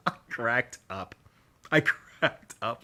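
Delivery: breathy giggling through the words; laughing under her breath as she remembers; whispered laugh. Real, not acted. Laughing at a funny scene.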